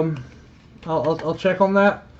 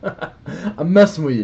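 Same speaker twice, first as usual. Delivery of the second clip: chuckling through the words; teasing with a laugh; 3 semitones higher, 5 dB louder than usual. Real, not acted.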